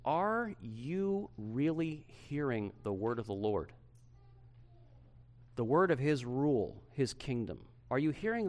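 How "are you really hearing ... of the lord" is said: slow, earnest question; serious, not accusing. Real, not acted. Pastor asking church to examine themselves, slow and serious. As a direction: ask it gravely and unhurried, without accusation. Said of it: "not accusingly, but seriously".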